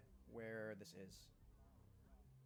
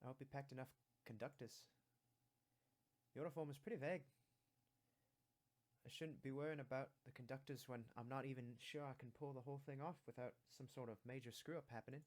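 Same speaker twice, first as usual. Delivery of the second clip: British; 5 dB quieter than usual. Acted. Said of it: "slight British accent".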